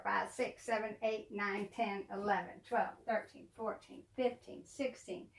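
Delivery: very soft, under-the-breath count; tally quietly to yourself; barely voiced running count; counting to oneself. Real, not acted. Recounting her dolls to herself.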